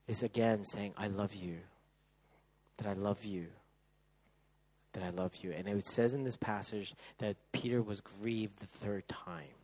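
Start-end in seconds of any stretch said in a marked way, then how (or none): 1.0-5.5 softer, pleading I love you; quiet avowal. Acted. Peter's quiet repeated avowal. 5.5-9.5 hushed whisper about grief. Acted.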